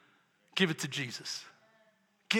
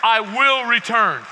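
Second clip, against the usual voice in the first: slow solemn repeat with weight on will; slowed, weighty promise; 7 dB louder than usual. Acted. Pastor repeating Christ's promise to the church, slow and weighty. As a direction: let I will return land slowly, each word weighted.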